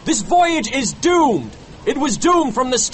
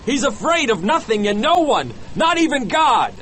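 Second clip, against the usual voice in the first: high, urgent warning; agitated, raised-pitch character voice; alarmed; 10 semitones higher than usual. A narrator's reading. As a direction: tell the crew with alarm. First mate warns crew about captain.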